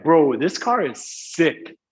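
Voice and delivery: sick pushed with a long hissing S; stress on sick. Shown as a demonstration. Teacher showing how friends stress sick, punched. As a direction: lean hard into the S of sick. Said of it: "we kind of stress".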